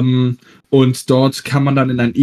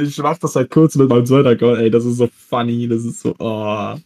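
overdriven, clipping mic; distorted, too hot on the input; fuzz distortion. Real, not acted. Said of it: "Du übersteuerst ein bisschen".

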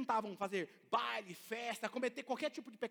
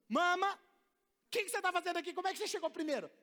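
high, louder, amazed voice; astonished question; 9 semitones higher, 5 dB louder than usual. Retold or imitated. Pastor astonished to find the old woman already there. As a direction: gasp out the question in disbelief.

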